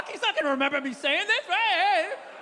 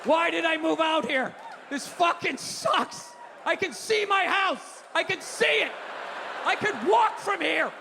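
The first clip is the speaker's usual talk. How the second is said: mock road rage. Frustrated driver stuck in traffic.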